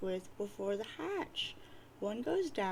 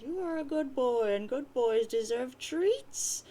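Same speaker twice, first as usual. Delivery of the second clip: doting nana; 3 semitones higher, 4 dB louder than usual. Acted. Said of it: "She says".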